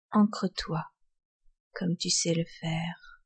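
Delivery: soft whisper close to the mic; right in your ear. Acted. Guided breathing, whispered close.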